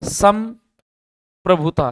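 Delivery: "संप्रभुता" drawn out very slowly, syllable by syllable; slow spelling out. Shown as a demonstration. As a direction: stretch "संप्रभुता" for the class to copy. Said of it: "संप्रभुता होता है". ("संप्रभुता" को धीरे-धीरे, एक-एक अक्षर खींचकर)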